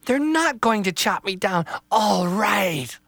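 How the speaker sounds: put-on high, loud, thrilled young tree; joy breaking through relief; excited little tree. Little Tree realizes she'll be replanted, high and thrilled.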